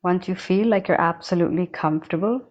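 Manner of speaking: unhurried meditation guide with long silent pauses; guided meditation. Acted. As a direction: guide them calmly, leaving long spaces between phrases. Leads a breathing meditation.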